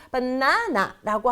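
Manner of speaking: "바나나" with a stretched, stressed middle syllable; 가운데 음절 강세. Shown as a demonstration. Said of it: "원어민들은 훨씬 알아듣기 쉬운". ("바나나"의 가운데 음절을 길고 강하게)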